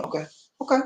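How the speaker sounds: soft, throwaway OKAY; unremarkable okay. Shown as a demonstration. Host showing an okay nobody notices, soft throwaway. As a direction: toss OKAY off softly, as if it means nothing. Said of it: "that don't mean nothing to me".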